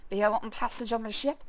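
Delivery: lightly voiced slurring pirate captain; a hint of a drunk captain haggling for gold; drunken sea captain. Player reads the drunk captain asking for passage gold, lightly slurred. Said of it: "drunkenly slurs".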